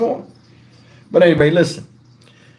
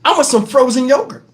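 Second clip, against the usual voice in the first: higher, imitated daughter asking for a treat; Tegan; 5 semitones higher than usual. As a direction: put on a kid's pleading request, pitched up. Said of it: "Tegan was like".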